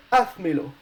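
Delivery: "hazmelo" with stress on the first A, HAZ-me-lo; Spanish word demo. Shown as a demonstration. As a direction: say "hazmelo" in Spanish, leaning on the opening A. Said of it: "the letter, which is stressed is the A".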